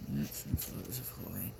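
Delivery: softly whispered title, read under the breath. Real, not acted. Browsing her book, reading the title to herself in a whisper. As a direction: murmur the title to yourself in a whisper.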